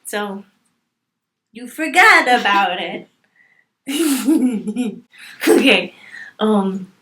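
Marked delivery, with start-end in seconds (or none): 1.5-3.1 loud, dramatic Italian-American delivery; Italian-American accent. Acted. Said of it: "so many Italian people".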